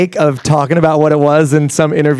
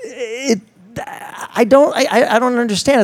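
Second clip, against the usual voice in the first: higher, halting and baffled; exasperated confusion; 8 semitones higher than usual. Retold or imitated. Told his food is too healthy, higher baffled stammer. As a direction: stammer in mock bewilderment. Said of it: "I'm like".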